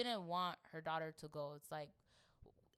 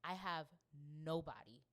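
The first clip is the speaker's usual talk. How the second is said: low, measured, mildly sorrowful; subdued grief; 4 semitones lower, 5 dB quieter than usual. Acted. Voicing the queen who lost her family, understated grief. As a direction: lay out each loss quietly, with pauses. Voices the grieving queen's reasons.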